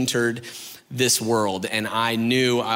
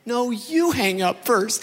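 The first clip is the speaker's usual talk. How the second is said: a slow, higher, sweet coo; cooing lover; 8 semitones higher, slower than usual. Retold or imitated. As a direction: drag it out lovingly. Lovers on late call.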